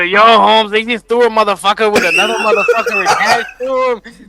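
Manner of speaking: laughing while shouting; laughing mock shout. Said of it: "They were".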